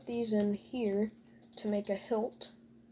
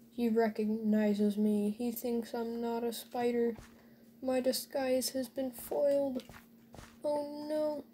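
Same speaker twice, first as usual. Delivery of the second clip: sarcastic; 2 semitones higher than usual. Pretend. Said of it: "Enough sarcasm".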